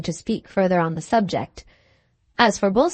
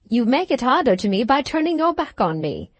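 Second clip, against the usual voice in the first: raised pleading voice; 4 semitones higher than usual. Acted. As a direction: beg him not to turn away. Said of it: "genuine pleading cry".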